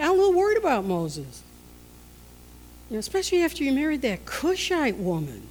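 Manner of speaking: chatty, high-pitched nosy neighbour act; gossiping visitors. Acted. Miriam and Aaron gossiping tent to tent, nosy and chatty. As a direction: lightly play a prying busybody fishing for dirt. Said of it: "stopping off at each tent and saying".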